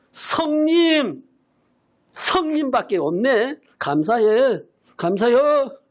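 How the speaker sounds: reading a friend's text in a light Jeolla dialect. Retold or imitated. Pastor reads his classmate's grateful text in mild Jeolla dialect. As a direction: drawl out 성님 in a mild Jeolla accent. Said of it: "전라도 사투리로".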